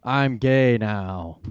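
slow drawn-out mock Spacey; Kevin Spacey impression. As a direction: drag it out like Spacey. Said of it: "written off of House of Cards".

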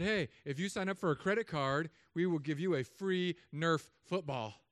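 a hint of a keen card promoter; lightly voiced salesperson. Credit card company pitching a college student, lightly voiced salesperson.

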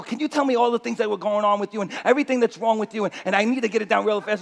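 imitating a nurse talking really fast. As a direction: rattle it off quickly, businesslike. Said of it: "she's talking really fast".

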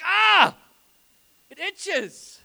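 a comic pretend shriek about an itchy ear; mock yelp. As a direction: cry out in fake itchy agony.

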